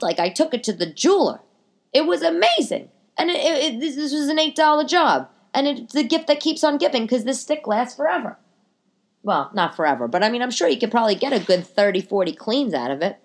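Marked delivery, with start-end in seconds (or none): 1.9-8.4 high, thrilled, laughing a little; gushing higher with a giggle; excited rave. Real, not acted. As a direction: oversell it like an infomercial. Raving about the stick.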